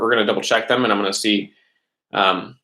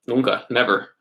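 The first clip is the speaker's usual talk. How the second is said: laughing. Acted. Joking they never go to school.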